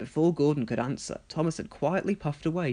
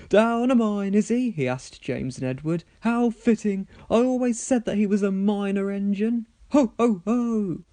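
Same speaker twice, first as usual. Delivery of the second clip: loud, higher booming gloat; gloating laugh; 6 semitones higher, 5 dB louder than usual. Acted. Gordon mocking Thomas to James and Edward, loud gloat. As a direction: crow over the news. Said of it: "he laughed loudly".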